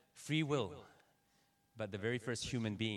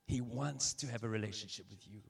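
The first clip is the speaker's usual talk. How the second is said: soft again, ending on a lift; gentle repeat; 4 dB quieter than usual. Shown as a demonstration. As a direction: let it sink in gently. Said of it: "Let's pause upon that for a second".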